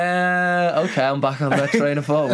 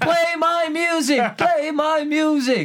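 much higher, slow mock plea; pleading fan voice; 13 semitones higher, slower than usual. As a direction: beg like an eager fan. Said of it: "I'd be like".

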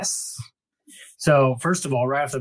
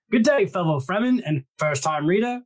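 put-on a light, half-hearted Australian accent; 5 semitones higher than usual. Host reads a listener's Australian email, mock Australian accent. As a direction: pitch it higher and lean into a mock Australian accent. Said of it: "I'm sorry if I'm butchering your accent".

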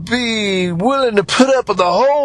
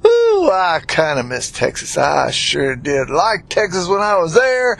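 light Texas twang, gently drawled; a hint of Texas country twang. Shown as a demonstration. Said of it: "I picked up this here twang".

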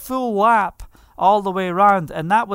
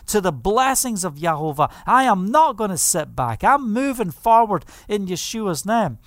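retold prayer. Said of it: "and I'm saying".

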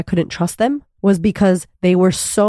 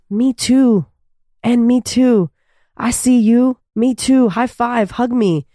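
excited cheering; 4 semitones higher, slower than usual. Retold or imitated. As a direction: cheer it like finding a friend. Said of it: "Vulnerability goes".

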